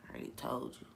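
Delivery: soft, unhurried answer; calm humble reply. Retold or imitated. Jesus answering his accusers, calm and soft. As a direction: quietly say it like it's settled.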